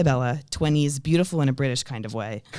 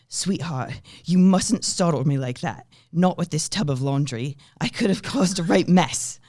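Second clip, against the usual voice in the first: put-on British accent; 3 semitones higher than usual. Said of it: "the accent I'm going to do".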